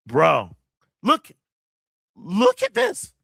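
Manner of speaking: can't believe what he's seeing; excited amazement. Real, not acted. Streamer shows chat the motion capture, amazed.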